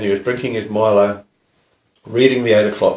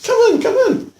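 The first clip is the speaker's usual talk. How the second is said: high-pitched, welcoming invitation; retold fussing host; eager welcome. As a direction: usher a shy guest in. Welcoming a shy visitor inside.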